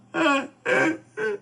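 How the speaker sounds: a high broken sob that falls away. Acted. Princess dowager sobbing at Luo Yi after accusing him. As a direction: let a wail break into a sob. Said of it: "说着话掉眼泪了".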